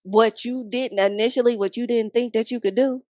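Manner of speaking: giddy amazed pep talk to yourself; hyped self-talk. Retold or imitated. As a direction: shout proud disbelief at yourself. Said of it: "It's like".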